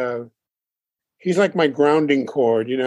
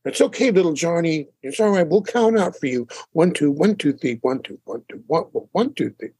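kind barber. Retold or imitated. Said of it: "the kind barber".

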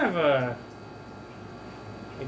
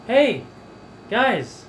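pirate guy voice; 9 semitones higher than usual. Acted. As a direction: call out like a cheery pirate. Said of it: "the pirate guy is like".

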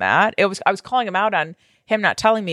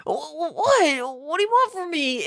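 mock flustered husband; 8 semitones higher, 3 dB quieter than usual. Imitating husband caught lying.

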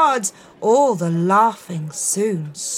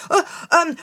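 nervous stammer; 6 semitones higher, much faster than usual. Acted. Piper panicking before king.

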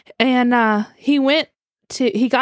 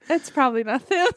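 laughing; 3 semitones higher than usual. Retold or imitated. Retelling, laughing through it.

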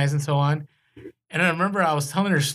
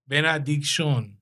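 "Benediction" in an offhand foreign accent, "Ve-NA-dic-shon"; slower than usual. Real, not acted. Host reading out a listener's handle, with a foreign accent. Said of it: "I don't know why I said that with an accent".

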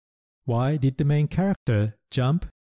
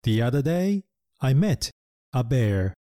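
storybook reading; slower than usual. Shown as a demonstration. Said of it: "絵本に出てきたセンテンスは".

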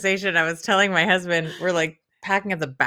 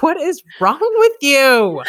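slow, higher, louder exasperation; husband asks wife, slow and exasperated; 7 semitones higher, 4 dB louder, slower than usual. Retold or imitated. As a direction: drag it out in disbelief. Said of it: "he's just like".

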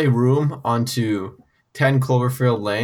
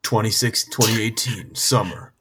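low trailer announcer date; 4 semitones lower, 4 dB quieter than usual. Pretend. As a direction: intone the release date like a trailer. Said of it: "Can I do, can I do the trailer".

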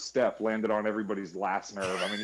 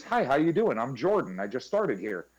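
higher, louder overeager greeting; imitating Jordan; 3 semitones higher, 4 dB louder than usual. Mimicking coworker's eager self-introduction, bright. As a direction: bounce in like a too-eager new hire. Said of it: "He goes".

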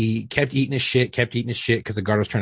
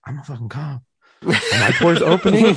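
high-pitched, laughing panic; mock scared; 6 semitones higher, 5 dB louder than usual. Cop retelling the massage, high laughing mock panic. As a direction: squeak it out like you're terrified mid-laugh. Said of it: "I was fucking scared".

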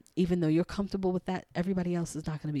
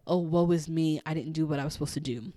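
woe is me; 4 dB louder, faster than usual. Pretend. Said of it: "So it's not such of a".

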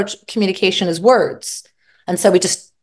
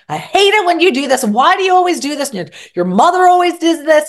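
high, complaining partner, mock exasperated; mock complaint; 9 semitones higher, 3 dB louder, faster than usual. Partner griping about what the other always does, mock exasperated. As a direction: whine it like a fed-up partner.

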